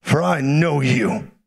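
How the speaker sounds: measured, earnest prophecy over one person; calm, solemn pronouncement; personal prophetic ministry. Real, not acted. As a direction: speak a blessing directly over them, unhurried. Prophesies over a woman in audience.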